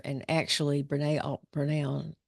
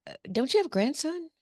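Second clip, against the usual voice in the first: pointed question; 11 semitones higher, faster than usual. Retold or imitated. Therapist questions patient Steve.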